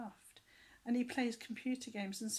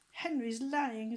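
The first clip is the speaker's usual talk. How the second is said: tattling; 3 semitones higher, 7 dB louder, slower than usual. Acted. Tattling brother.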